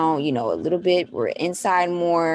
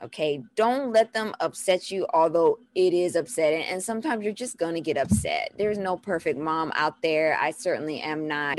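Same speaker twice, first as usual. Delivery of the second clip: normal talking voice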